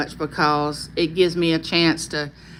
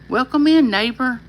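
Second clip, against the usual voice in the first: lilting, higher-pitched greeting, falling at the end; signature welcome; 5 semitones higher than usual. Retold or imitated. Channel host showing how she welcomes people, lilting greeting. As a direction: sing out a friendly catchphrase hello. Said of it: "That's why I say".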